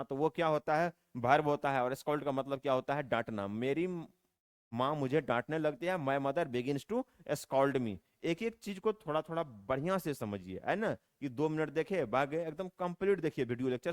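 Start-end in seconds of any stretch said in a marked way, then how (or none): 6.0-8.0 very slow, word by word; slow dictation. Shown as a demonstration. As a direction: read the example slowly for copying. Teacher reads model sentence. (धीरे धीरे, हर शब्द अलग)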